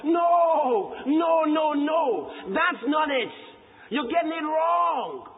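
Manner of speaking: rising preacher's protest. Real, not acted. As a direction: hammer the no home. Preacher rebuts loudly.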